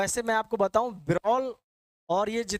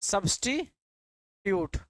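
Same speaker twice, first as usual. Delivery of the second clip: सब्स्टिट्यूट drawn out syllable by syllable; slow dictation; much slower than usual. Shown as a demonstration. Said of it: "इसी को कहते हैं आप सब्स्टिट्यूट". (धीरे धीरे सब्स्टिट्यूट)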